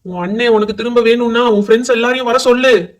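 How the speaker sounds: loud, forceful demand; menacing ghost laying down an ultimatum; threatening order. Acted. Ghost threatens over the possessed brother.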